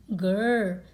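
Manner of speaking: loud playful dinosaur growl; little growl. Acted. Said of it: "said George".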